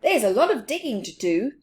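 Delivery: a hint of busy Big Mouse; lightly voiced Big Mouse. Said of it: "said Big Mouse".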